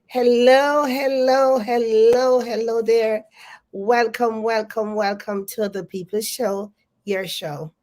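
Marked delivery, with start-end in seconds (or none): none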